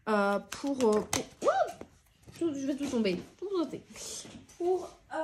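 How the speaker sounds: hiccup catching the breath; words cut by hiccups. Real, not acted. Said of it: "pardon, j'ai le hoquet".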